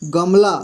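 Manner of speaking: गमला said clearly, ग fully sounded; teacher showing the word गमला; model word. Shown as a demonstration. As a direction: say गमला with a full ग. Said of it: "मान लीजिए".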